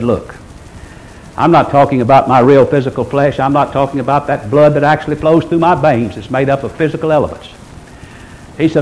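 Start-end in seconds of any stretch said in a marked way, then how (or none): 0.0-7.5 low, gentle explaining tone; nice way. Retold or imitated. Jesus explaining he means no physical flesh, mildly. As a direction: explain it patiently and mildly, pitched down. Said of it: "In a nice way, he said".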